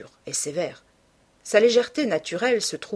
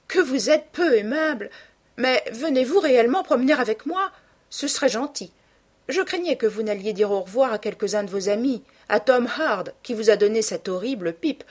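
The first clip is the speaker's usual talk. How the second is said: put-on higher-pitched, eager young woman; lively teasing sister; 5 semitones higher, 5 dB louder than usual. Sister planning an outing with her brother, eager and teasing. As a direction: chatter eagerly with lifted pitch, loudest on the questions.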